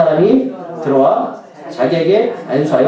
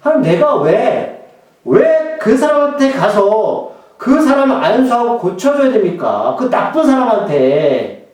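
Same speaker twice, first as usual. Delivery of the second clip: arguing with God; 2 semitones higher, slower than usual. Retold or imitated. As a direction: mildly protest why it must be you. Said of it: "아나니아가 하나님 앞에 따지는 거예요".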